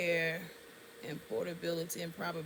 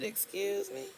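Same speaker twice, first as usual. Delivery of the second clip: high, shocked "Excuse me?"; outraged disbelief; indignant excuse me; 12 semitones higher than usual. Retold or imitated. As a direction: act offended, pitch jumps up. Offended caller to rude pharmacist.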